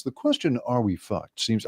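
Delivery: flat mechanical robot voice. Pretend. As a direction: read it like a monotone machine. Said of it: "my favorite robot voice".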